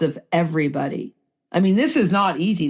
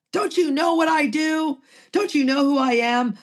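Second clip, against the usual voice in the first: pitched higher, mock self-important; puffed-up arrogance; 6 semitones higher than usual. Mocking her own boastful self to the group, mildly puffed up. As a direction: strut it like a peacock. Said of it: "put some peacock feathers on and started pumping my chest".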